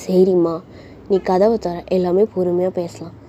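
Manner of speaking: calm, understated reassurance; lightly voiced patient dad; calm father. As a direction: coax her gently, keeping it low-key. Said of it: "ரொம்ப காமா தான் சொல்றாரு".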